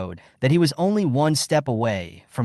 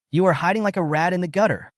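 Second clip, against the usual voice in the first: quick, raised angry retort; angry, trembling voice; 6 semitones higher, faster than usual. A narrator's reading. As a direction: spit it out, fast and angry. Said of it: "said angrily with a trembling voice".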